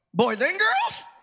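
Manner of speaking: high, stunned, disbelieving voice rising sharply. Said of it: "My voice went up like that".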